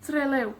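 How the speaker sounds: Trelew with TRE and LEW both stressed; TRE-LEW, even beats; stress on both syllables. Shown as a demonstration. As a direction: give equal weight to both halves of Trelew. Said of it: "la énfasis en las dos sílabas".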